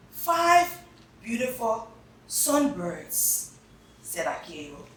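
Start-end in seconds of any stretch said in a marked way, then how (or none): 0.1-3.5 high, bright five; high excited counting. Acted. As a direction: delight in each bird. Counting aloud.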